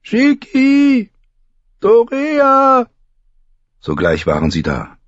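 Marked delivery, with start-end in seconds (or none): 0.0-2.9 high, louder calls for her maids; calling out. A narrator's reading. Dany calls her maids to the tent, high and loud. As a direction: call them in, clear and carrying. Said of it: "rief sie".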